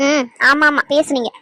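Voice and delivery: low-key, drawled yes, half-mocking; drawn-out reply. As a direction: drag out a grudging agreement. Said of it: "என்னடி ஒரு மாதிரி இழுத்து பேசுற".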